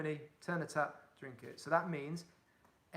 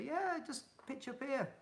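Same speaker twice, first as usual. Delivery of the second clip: easygoing local; 11 semitones higher than usual. Retold or imitated. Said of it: "Most people will say".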